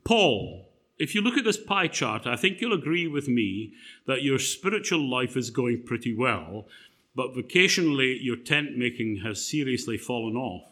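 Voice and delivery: brief Paul like a management consultant. Retold or imitated. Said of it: "the time management consultant says".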